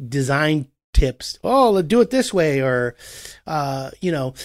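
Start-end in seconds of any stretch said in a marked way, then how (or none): 1.4-2.6 excited homeowner. Retold or imitated.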